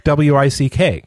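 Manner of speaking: spelled letter by letter, slowly; spelling it out. Shown as a demonstration. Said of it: "Because you spell wick".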